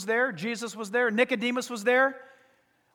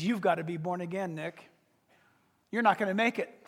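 much softer and lower, almost confiding; hushed warning; 6 semitones lower, 6 dB quieter than usual. Retold or imitated. Jesus quietly telling Nick he must be reborn. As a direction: lean in and say it low.

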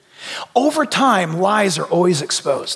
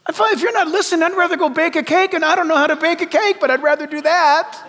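laughing; 7 semitones higher than usual. Real, not acted. Laughing, higher and amused.

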